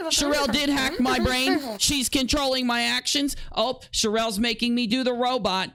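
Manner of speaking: lightly hammed-up hypnotized voice, pitched a bit up; mock mind-controlled voice. To chat, pretending Sherelle controls his speech, mock hypnotized. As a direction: play it like a brain-hacked puppet. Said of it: "Stop making me talk like this".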